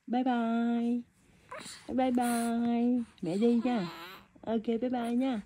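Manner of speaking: drawn-out, lilting bye-bye; sweet, lingering goodbye to an infant. Real, not acted. Mother waving goodbye to baby.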